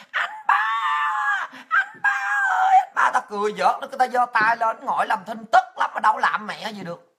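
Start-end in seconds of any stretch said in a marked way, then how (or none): 0.1-3.1 put-on old women shouting "Anh ba ơi" to the visiting president; calling out. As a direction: mimic women calling across a crowd, much higher.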